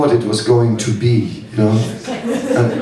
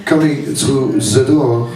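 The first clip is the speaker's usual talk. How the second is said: light put-on French accent while storytelling; slower than usual. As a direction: tell it with a hammy French accent. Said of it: "for the accent, uh, excusez-moi".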